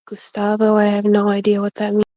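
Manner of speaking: loud. Acted. Loud, fast retort.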